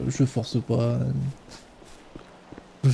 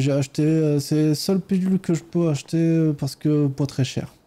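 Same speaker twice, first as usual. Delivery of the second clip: put-on Ukrainian accent. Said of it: "mon superbe accent ukrainien".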